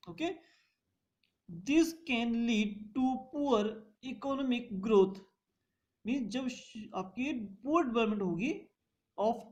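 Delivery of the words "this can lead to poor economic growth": spaced out phrase by phrase; slow dictation. Shown as a demonstration. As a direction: dictate slowly for notes. Teacher dictates a point slowly. (धीमे-धीमे लिखवाना)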